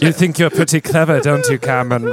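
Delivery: lightly voiced taunting villain; a hint of a mocking goblin ruler toying with a captive; lightly played all-seeing villain; a singer. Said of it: that somewhere the singer's standing there watching you.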